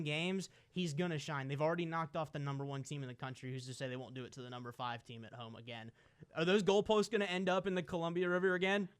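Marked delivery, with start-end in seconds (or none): 6.3-8.9 higher and louder, revved up; fired-up rhetorical question; excited hype. Real, not acted. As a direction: build the hype about fans storming. Hyping goalposts torn down again.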